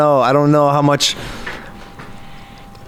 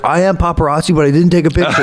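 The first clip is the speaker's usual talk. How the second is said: high voice, laughing through it; half-laughing paparazzi excuse; laughing denial; 7 semitones higher, faster than usual. Retold or imitated. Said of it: "He's like".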